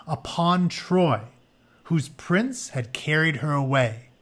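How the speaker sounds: measured storybook read, some phrases drawn out slow; story narration. Acted. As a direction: read the myth to the class like an epic. Reads story book aloud.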